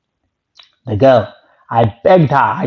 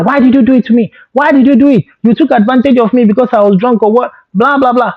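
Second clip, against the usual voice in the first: mock angry shout; 10 semitones higher, faster than usual. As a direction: lash out at the roommate. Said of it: "shouting at her".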